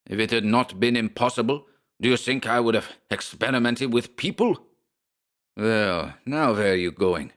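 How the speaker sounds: German rage. Acted. Schmersholt whirls on Briggs, furious German accent. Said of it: "The little German whirled on him".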